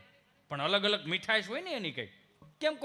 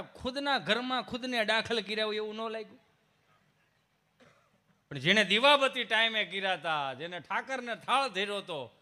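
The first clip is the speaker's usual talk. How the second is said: usual speaking voice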